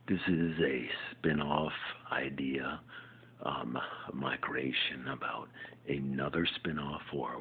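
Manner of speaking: slow unvoiced whisper; whispered pitch. Real, not acted. Whispering his spin-off pitch to camera. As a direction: hush it out slowly.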